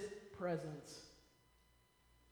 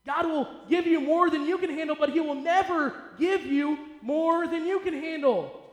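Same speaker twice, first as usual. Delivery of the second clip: raised, emphatic preaching; preaching louder; 5 semitones higher, 4 dB louder than usual. Real, not acted. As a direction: build it up for the crowd. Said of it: "Did you hear me?".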